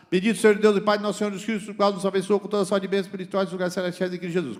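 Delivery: rattled off fast and loud; recited from memory. Shown as a demonstration. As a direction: reel off the verse by heart. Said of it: "eu cito decorado". (recitando de cor, rápido e alto)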